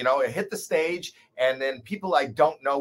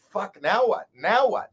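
panicked; 7 semitones higher, slower than usual. Retold or imitated. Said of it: "I went".

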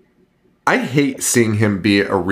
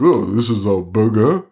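put-on French accent. Imagined diner puzzled by a burger in Japan, French accent. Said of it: "say it in a French accent".

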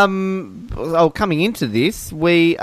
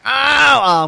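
mock cry of pain; 8 semitones higher than usual. Faking pain as a prank.

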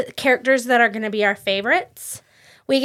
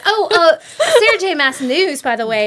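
louder and higher, carried away; excited yelling; 4 semitones higher, 5 dB louder than usual. Real, not acted. Podcaster announcing a release date, yelling without noticing. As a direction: raise your voice with the exciting news. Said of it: "Oh, wow, I'm yelling".

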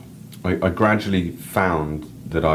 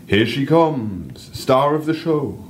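slow, higher North English guide over a mic; North English accent; 10 semitones higher, 4 dB louder, much slower than usual. Acted. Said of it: "random North English accent".

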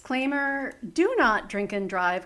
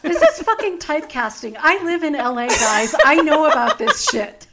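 louder, laughing fake indignation; mock outrage; 5 semitones higher, 8 dB louder than usual. Real, not acted. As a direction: protest the typecasting in jest. Playful outrage at casting.

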